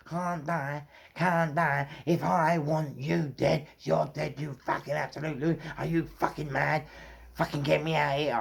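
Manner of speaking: high-pitched, incredulous rant, replayed; re-enacted threat. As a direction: act out scolding a madman. Replays his threat to the man.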